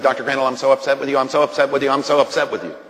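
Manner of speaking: rushed, insistent repeated complaint; upset nurse. Retold or imitated. Nurse running out to confront Doctor Crandall, upset. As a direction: imitate a nurse blurting it out over and over. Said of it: "The nurse came running out of the room".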